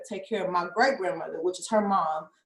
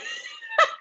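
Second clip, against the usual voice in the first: imitated crying. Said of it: "I called her crying".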